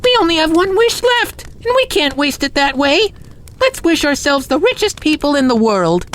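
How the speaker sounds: very high, pleading wail; hammed-up upset housewife; bawling wife. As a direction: plead in a high-pitched, distressed wife's voice. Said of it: "began to cry and bawl".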